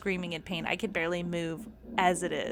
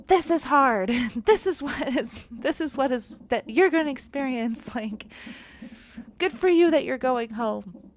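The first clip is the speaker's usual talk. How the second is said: sarcastic mock voice; 6 semitones higher, 6 dB louder than usual. Mocking the neighbor in her head.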